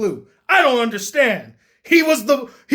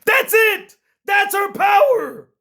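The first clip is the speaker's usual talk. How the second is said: exasperated; 8 semitones higher, slower than usual. Real, not acted. Ranting about her single power.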